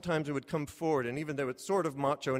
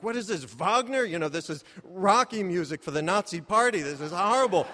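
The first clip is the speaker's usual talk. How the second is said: outraged mock complaint; 3 semitones higher, 3 dB louder than usual. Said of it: "I'm like".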